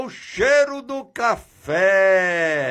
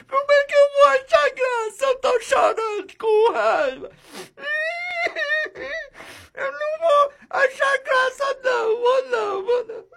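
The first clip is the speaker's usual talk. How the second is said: whiny crying character; faster than usual. Acted. Grumpy character voice crying angrily.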